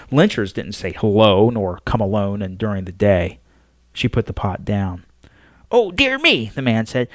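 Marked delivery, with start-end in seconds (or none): 5.7-6.5 higher, lightly voiced fretful old man; an old man caught off guard, oh dear; flustered old man. Old man startles the Pope, flustered and higher.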